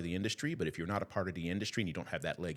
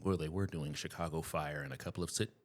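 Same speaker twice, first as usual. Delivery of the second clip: hiccups; 4 dB quieter than usual. Real, not acted. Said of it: "got the hiccups".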